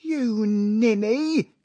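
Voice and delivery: high, long-drawn furious insult; angry. A narrator's reading. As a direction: turn on your wife in theatrical rage. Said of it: "his face was contorted with anger".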